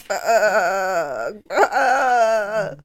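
goat voice. Retold or imitated. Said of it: "he sounds like a goat".

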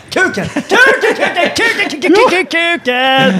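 imitating tics.

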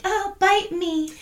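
high, slow breathy swoon; swooning fangirl. Retold or imitated. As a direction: sigh it like a lovestruck teen. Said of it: "all the girls were like".

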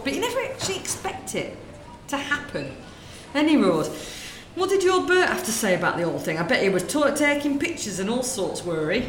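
lightly voiced gossiping northern woman, chatty; northern shop lady. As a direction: natter away like a corner-shop lady. Sketch, same shopkeeper.

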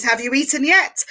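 ends on a gentle rise at "yet"; rising tune on "Have you eaten yet?"; upward inflection. Shown as a demonstration. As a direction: ask it like a Jewish mother, lifting the end. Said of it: "I said that with an upward inflection".

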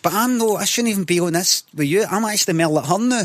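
high-pitched, affronted protest; mock snobbish indignation. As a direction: act too grand for present company. Mock snobbish retort to the woman.

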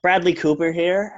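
lightly voiced Bradley Cooper in American; American accent. Actor introduces himself to pawn shop hosts, American accent. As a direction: put on a casual American accent. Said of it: "Has one American accent".

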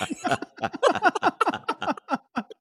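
can't hold the laugh in; high laugh. Real, not acted. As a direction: burst of high-pitched laughter. Punchline about the bowl of chips.

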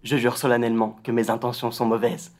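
imitation légère, grave et posée; Harry Potter. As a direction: pose chaque mot, sans sourire. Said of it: "Il est grave". (ton grave et solennel, à peine joué)

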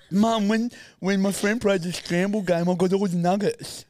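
put-on little girl voice. Child boasting to mum.

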